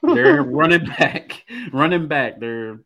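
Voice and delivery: stifling laughter over stats; holding back a giggle, barely; trying not to laugh. Real, not acted. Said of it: "I'm trying not to laugh at this stats".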